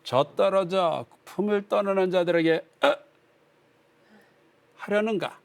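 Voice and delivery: lightly hammed-up drunkard reading scripture; dramatic drunk reading. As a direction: read it dramatically, a touch tipsy. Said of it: "좀 이렇게 드라마틱하게 읽어볼게요".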